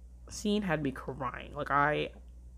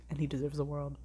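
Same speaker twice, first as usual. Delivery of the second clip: soft whisper; 3 dB quieter than usual. Real, not acted. Gushing over favourite character.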